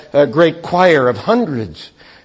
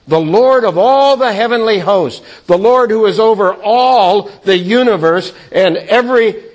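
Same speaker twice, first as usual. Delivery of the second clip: rising awed cry; 4 semitones higher than usual. Acted. Isaiah having seen the King, swelling awed cry. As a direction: let the awe swell with each line. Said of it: "this is the position of Isaiah".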